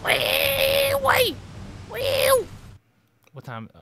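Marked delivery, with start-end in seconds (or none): 0.1-2.5 very high, loud squeal; joyriding in the jeep; gleeful wee. Real, not acted. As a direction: squeal like on a ride.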